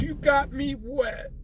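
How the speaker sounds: high, slow, squealing voice; squeaky belt voice. Pretend. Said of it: "The belt says".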